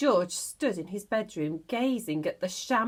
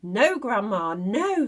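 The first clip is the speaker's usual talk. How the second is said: put-on boy calling back; 6 dB louder than usual. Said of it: "George called back".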